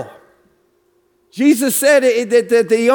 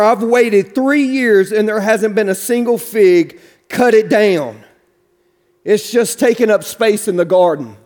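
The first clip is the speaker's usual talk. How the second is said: mildly fed up, pitched a little low; understated weary owner laying down a verdict; 4 semitones lower than usual. Acted. Garden owner to his gardener, mildly fed up. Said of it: "God has had it up to here".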